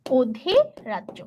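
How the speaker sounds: অধিরাজ্য drawn out very slowly for dictation; slow repeat. Shown as a demonstration. Teacher repeating the term so the class can write it, slow. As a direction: stretch অধিরাজ্য syllable by syllable. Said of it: "এটা কি?".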